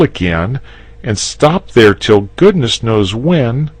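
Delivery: put-on high, loud young boy voice; a boy pressing his point; boy urging the dragon to fight; eager boy. The boy's lines, voiced.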